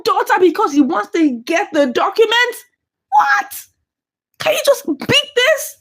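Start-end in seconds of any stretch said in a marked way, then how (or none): 3.1-3.6 very high shocked cry; shocked what. Real, not acted. Shocked at the scene. 4.4-5.8 higher, tearful plea; can't believe it, near tears; tearful disbelief. Real, not acted. Disbelief after shock.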